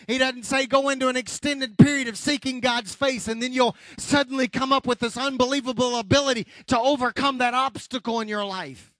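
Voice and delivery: emphatic preacher's delivery; forceful preaching. Real, not acted. Preacher urging congregation past temporary obstacles, forceful preaching. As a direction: drive each phrase home to the congregation.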